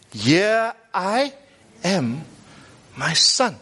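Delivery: slow, spaced-out answer; measured fatherly reply, no exclamation; no shouting back. Acted. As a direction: answer steadily, with pauses between words. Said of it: "Didn't shout back. He said".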